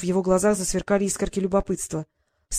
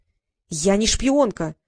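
slow, slightly raised protest; cry out; 3 dB louder, much slower than usual. Acted. Girl hiding behind Nick cries out her denial. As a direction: insist slowly and a bit louder. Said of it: "выкрикнула Василиса".

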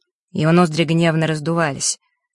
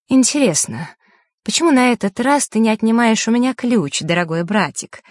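higher-pitched pointed challenge; sharp; 5 semitones higher than usual. A narrator's reading. Vasilisa confronting her brother over the key, sharp. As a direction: sharply challenge him, voice lifted. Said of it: "резко произнесла Василиса".

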